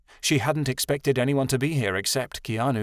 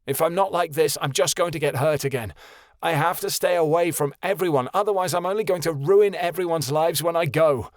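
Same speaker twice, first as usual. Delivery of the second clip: snapping; 6 semitones higher than usual. A narrator's reading. Son snapping at his father, angry. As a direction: snap it back at him. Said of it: "Keanu snapped".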